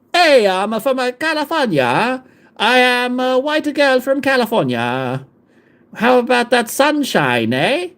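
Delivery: high, badly faked California accent; wandering California accent. Streamer posing as a girl from California, in a wobbly Californian accent. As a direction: put on a California accent that slips word by word. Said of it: "The accent is changing per word".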